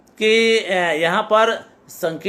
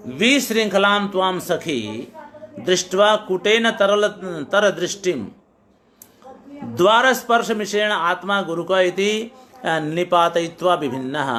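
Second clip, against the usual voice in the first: verse recitation. Acted. Teacher recites Sanskrit rendering.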